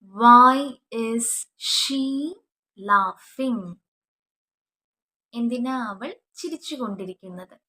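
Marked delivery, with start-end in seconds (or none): 0.0-3.8 loud model sentence. Shown as a demonstration. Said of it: "എന്നെങ്ങനെ ചോദിക്കും?".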